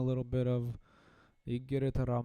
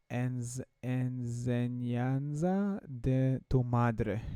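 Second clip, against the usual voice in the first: slow careful reading; slower than usual. Shown as a demonstration. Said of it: "let's try to read it in Spanish".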